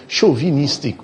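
"chauvinistic" queried as show-vee-NIS-tic; "chauvinistic" mimicked syllable by syllable, long vee; mocked mispronunciation. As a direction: repeat the odd "chauvinistic" in disbelief. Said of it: "Where have you ever heard a pronunciation".

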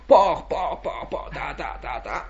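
"porc, porc" trailing off into a breathy "ta, ta, ta"; a rhythmic feeding noise dying away; fading porc chant. Retold or imitated. Mimics force-feeding the chicks.

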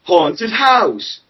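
mild game show announcer; game show host. Pretend. The boy introduces his story like a game show host. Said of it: "sounds like a game show hosted".

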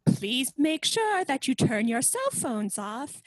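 booming town crier announcement. Acted. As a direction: herald calling the crowd, arms wide. Town crier opens the fair.

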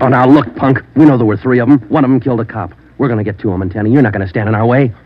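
angry threat. Acted. Sergeant pressing the suspect about a cop killer, angry and loud. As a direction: lean on him hard and loud.

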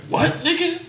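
high, laughing mock outrage; amused imitation of an offended Mike; mock angry Mike. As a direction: play Mike taking offense, half laughing. Acting out Mike's angry reaction.

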